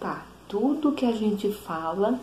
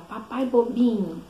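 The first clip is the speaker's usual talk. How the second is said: put-on slow, higher childlike tease; toddler copying Peppa; 4 semitones higher, 4 dB louder, slower than usual. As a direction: tease daddy like a little cartoon pig. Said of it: "igualzinho, imitando".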